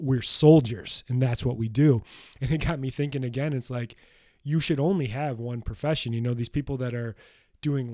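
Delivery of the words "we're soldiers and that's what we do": retold soldiers' yell. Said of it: "they just yell out".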